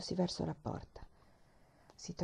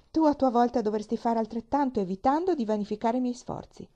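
stern; 3 semitones higher, 5 dB louder than usual. Acted. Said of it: "disse con voce severa".

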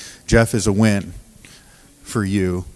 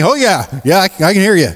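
mock flustered reply; 10 semitones higher, 5 dB louder than usual. Pastor answering drunk man.

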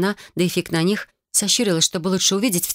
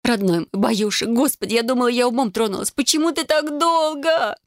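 tearful rush; 7 semitones higher than usual. A narrator's reading. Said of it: "со слезами на глазах затраторила".

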